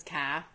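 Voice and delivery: "ca" with an open Australian A, no R; hard A. Retold or imitated. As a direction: say "ca" like an Australian car. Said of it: "with a hard A".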